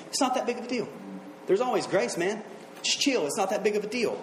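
acted easygoing shrug; casual brush-off. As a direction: wave it away lightly. Voices casual attitude toward sin.

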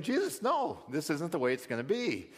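mock rebuke, pitch leaping then settling; rebuking. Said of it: "begins to rebuke him".

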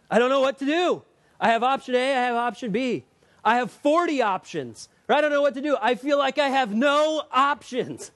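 mock confused believer. Voicing a confused listener.

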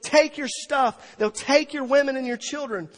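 high, loud, urgent lament; impassioned retold weeping. Preacher quoting Jesus weeping over the city, impassioned lament. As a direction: preach the lament at full force, without sobs. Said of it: "starts weeping and says".

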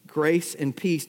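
"Grace and peace" drawn out slowly, each word weighted; slow emphatic. Shown as a demonstration.

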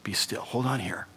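soft, soothing, hushed calling of a name; calm him down, softly; hushing voice of Jesus. Pretend. Jesus hushing the fallen Saul, gentle and soft. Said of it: "a voice saying to him".

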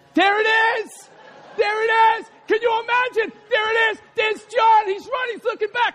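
high, shouted running commentary; excited race call. Acted. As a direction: call the footrace with mounting thrill.

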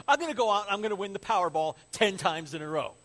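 loud, emphatic, overblown vow; mock desperate promise. Debtor promising king lottery winnings, loudly insistent. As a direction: sell the absurd plan hard.

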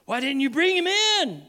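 high-pitched acted demand. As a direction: demand it like an offended boss. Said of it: "they demanded".

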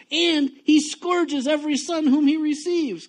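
reading the verse high and loud, at full force; thundering scripture reading; loud preaching read. Shown as a demonstration. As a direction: belt the verse out like a fiery preacher. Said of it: "When I used to talk like this".

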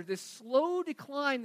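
"slow" drawn out for emphasis; stress on slow. Real, not acted. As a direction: lean on the word "slow". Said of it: "I emphasize the word slow decline".

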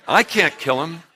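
a laugh through the mock prayer; amused mock prayer. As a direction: chuckle over the words. Laughing while mimicking prayer.

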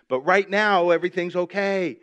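high, tense claim that all is well; uneasy reassurance. Shown as a demonstration. Preacher demonstrating uneasy worldly peace while the next shoe may drop, uneasy reassurance. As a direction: insist it's okay while not feeling it. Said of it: "look at the way I say that".

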